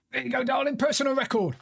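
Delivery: a high, sing-song "darling" to the dog; cheeky pet-name coo; mock pet-name voice. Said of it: "I've been told off for talking like that".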